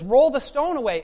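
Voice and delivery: loud, firm order; commanding. Retold or imitated. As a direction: call it out as a command. Voicing Jesus giving an order.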